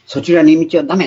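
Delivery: loud inner voice warning the lost. Retold or imitated. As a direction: call out to stop someone going astray. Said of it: "特に大きな声で".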